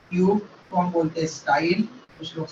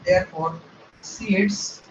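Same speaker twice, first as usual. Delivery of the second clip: very slow, word by word with pauses; slow dictation; much slower than usual. Shown as a demonstration. Teacher dictating the conclusion, slow and spaced. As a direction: read the line out for students to copy. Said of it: "slow dictation of notes".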